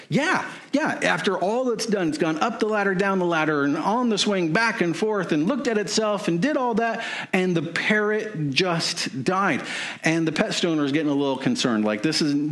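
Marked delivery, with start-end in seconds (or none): 0.1-9.6 higher, worked-up listing of everything the parrot did; exasperated retelling. Retold or imitated. Lady telling the pet store owner the parrot died, higher and worked up. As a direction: pile it on, higher and higher in disbelief.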